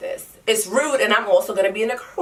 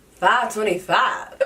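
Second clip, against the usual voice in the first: incredulous; 2 semitones higher, much slower than usual. Real, not acted. Shocked at the price.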